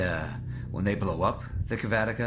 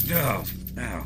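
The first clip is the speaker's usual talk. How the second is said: pained ow; 2 semitones higher than usual. Acted. Armor touched while injured.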